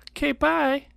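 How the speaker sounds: breathy whispered goodbye; whispered bye. Retold or imitated. Retold goodbye after kiss.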